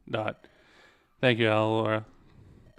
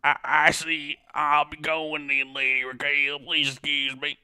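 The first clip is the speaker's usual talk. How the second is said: strained character voice; 2 semitones higher than usual. Acted. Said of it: "I'm gonna destroy my voice".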